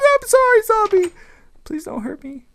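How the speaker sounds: very high squeaky begging; mock pleading. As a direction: whimper an apology in fake terror. Pleading with zombie.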